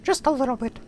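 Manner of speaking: very high loud cartoon mouse voice; trying out the Mickey voice. Shown as a demonstration. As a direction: chirp it out as Mickey. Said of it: "the Mickey".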